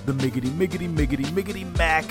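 rhythmic hyped name call; hype man intro. Acted. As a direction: chant the name like a wrestling announcer.

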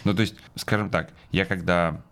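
ordinary talk

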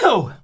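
sudden sneeze into the mic; sneezing. Real, not acted. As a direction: sneeze mid-sentence. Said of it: "sorry for the sneeze".

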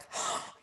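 soft imitated gasp of wonder; quick mock intake of breath; awed gasp. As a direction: gasp like an awestruck child. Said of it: "I've seen little boys see Elphaba".

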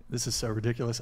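ordinary delivery

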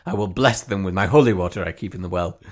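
put-on lightly fawning over a small child; mildly gushing, mock-adoring coo. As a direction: play at doting on a kid. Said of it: "like, fawning way".

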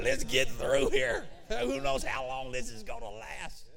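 hammed-up shout to hurry a crowd; hurried mock panic. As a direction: yell as if fleeing in panic. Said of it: "I bet nobody was shuffling along".

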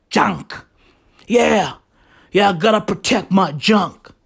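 light put-on voice of a junk-sayer; people who say junk. Mimicking people who call genitals junk, lightly put-on voice. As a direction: lightly mimic how those people speak. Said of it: "that's how they speak".

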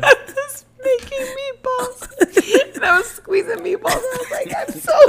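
high, strained words squeezed out through laughter; laughing to tears. Real, not acted. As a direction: barely get it out for laughing. Cracking up at her own story.

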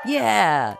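high, drawn-out cheer. A narrator's reading. Everyone cheers the plan, rousing cheer. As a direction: cheer it like a whole crowd. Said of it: "everyone cheered".

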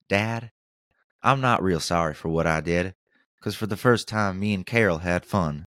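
put-on a light Forrest Gump accent on the letter, close to his own voice. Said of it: "I gave him a Forrest Gump accent".

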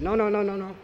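put-on high, childish no-no-no; a frightened little girl protesting; little girl pleading. Storyteller voicing a little girl refusing the lake, high pleading.

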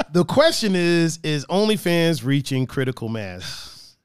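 slow, deliberate announcer delivery; measured, spaced-out headline read; topic announcement. Real, not acted. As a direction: pose it as a weighty question.

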